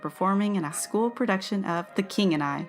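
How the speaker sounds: measured, careful story narration; unhurried, even reading over music; history segment read-aloud. Acted. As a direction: read it out like a radio history feature. Reads a book segment aloud.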